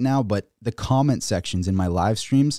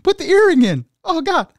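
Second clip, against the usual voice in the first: hammed-up begging child, much higher and louder; mock crying kid; 6 dB louder than usual. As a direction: plead like a desperate little kid, squeaky and loud. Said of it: "the kid's just sitting there crying".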